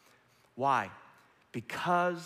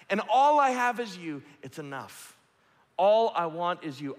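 impassioned prayer; 9 semitones higher, 7 dB louder than usual. Acted. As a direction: pour it out, then drop away.

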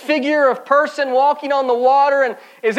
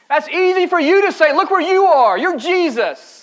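protesting retort; 5 semitones higher than usual. Acted. Doubter's retort to Jesus, now openly.

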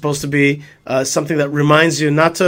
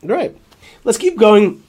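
cracking voice on one word; voice cracking up an octave; 5 semitones higher, 3 dB louder, slower than usual. Real, not acted. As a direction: voice cracks up high. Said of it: "my voice cracked there".

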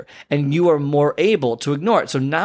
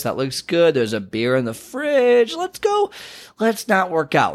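a mild mock tempter talking you out of it; lazy inner voice gently wheedling; tempting inner voice; 3 semitones higher than usual. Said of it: "that voice that goes".

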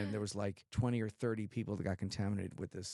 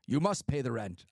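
radio drama villain; 5 dB louder than usual. Pretend. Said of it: "They had actors be like".

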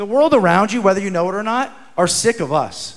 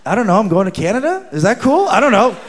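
laughing reply; 3 semitones higher, 4 dB louder, faster than usual. Retold or imitated. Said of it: "And I'm like".

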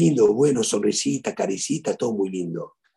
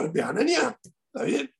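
retold shout; 11 semitones higher than usual. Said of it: "Le gritaba".

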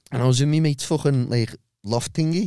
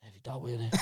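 stoned mumble; 17 dB quieter, faster than usual. Retold or imitated. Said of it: "and I went".

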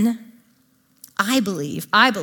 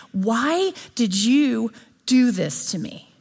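mock scream at God; slower than usual. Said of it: "scream at him and say".

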